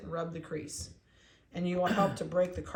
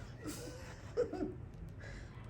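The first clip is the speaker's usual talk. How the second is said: high airless giggle; breathy laugh; 13 semitones higher, 10 dB quieter than usual. Real, not acted. Breeder watching the puppy stretch, airless giggle.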